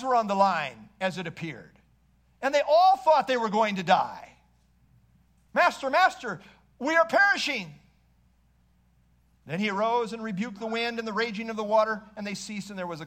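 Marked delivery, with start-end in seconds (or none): 5.5-7.7 panicked cry. Acted. Disciples crying out in the storm.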